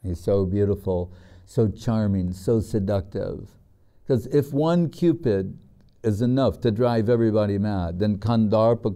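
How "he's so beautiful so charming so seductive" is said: swooning women. Retold or imitated. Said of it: "The women, they're like".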